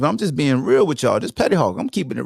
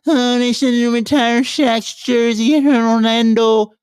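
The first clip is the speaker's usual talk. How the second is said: higher, slower mock fan whine; mocking whiny fans; 6 semitones higher than usual. Mocking Orlando fans, higher, slow whine. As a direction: sneer at the complaining fans. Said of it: "Y'all really out here screaming".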